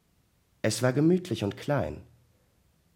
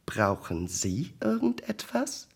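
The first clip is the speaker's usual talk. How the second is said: higher-pitched, mildly irritated question; slightly irritated; 5 semitones higher, 4 dB quieter than usual. A narrator's reading. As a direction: ask with a touch of irritation, pitch raised. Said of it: "fragte sie ihn leicht gereizt".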